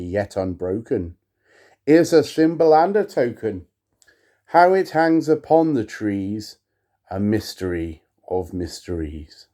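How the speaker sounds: measured, solemn recitation; poem reading. Acted. To viewers, reading Poe aloud, solemn poetic recitation. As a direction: intone the verse with gravity.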